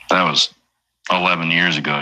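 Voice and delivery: ordinary delivery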